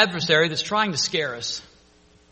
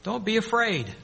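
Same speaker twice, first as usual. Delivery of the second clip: reassuring Jesus; 5 semitones higher, 3 dB louder than usual. Retold or imitated. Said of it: "Jesus who spoke to them and said".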